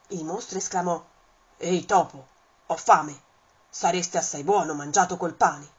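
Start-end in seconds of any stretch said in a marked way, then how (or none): 1.6-5.7 the beast licking its lips over the mouse; hungry monster. Acted. Il mostro minaccia il topo. (mostro affamato, voce più bassa e forte)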